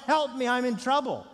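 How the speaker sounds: high, loud child's plea acted out; mighty call for help. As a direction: call out to a parent for rescue. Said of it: "should call out mightily to mom or dad".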